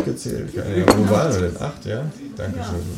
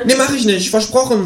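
much higher, cheeky kangaroo voice. Acted. Kangaroo suggests the cinema, high cheeky voice. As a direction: squeak it out as the kangaroo. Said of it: "sagt das Känguru".

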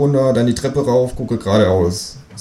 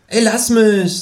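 annoyed kangaroo; 13 semitones higher, slower than usual. Acted. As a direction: snap back in the kangaroo voice. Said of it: "sagt das Känguru".

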